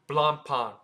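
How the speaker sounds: Blancpain as blahn-pahn; French pronunciation. Shown as a demonstration. Teacher sums up for viewers, French pronunciation. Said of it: "not to pronounce the C".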